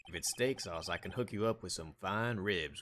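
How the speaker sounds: lightly voiced Texas lawman; a touch of folksy cowboy storytelling. The speaker sharing old ranch wisdom, cowboy. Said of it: "I love doing the cowboy voice".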